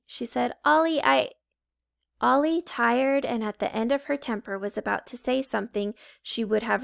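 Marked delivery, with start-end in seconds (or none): 0.7-1.3 calling out. Acted. Coco tries again.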